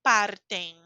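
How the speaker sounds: partem with a clean hard T; plain T in partem. Shown as a demonstration. Teacher showing the T inside partem. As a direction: say partem without a ch. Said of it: "T normal".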